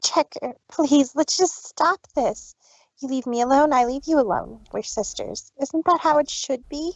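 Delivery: genuine plea. Acted. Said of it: "actually being genuine".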